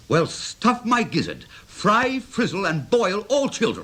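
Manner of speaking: slow, hammed-up pirate threat, laughing; mock pirate. Uncle playing pirate for the giggling children, hammed-up threat. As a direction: growl at the children like a playful pirate. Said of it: "I think he's a pirate".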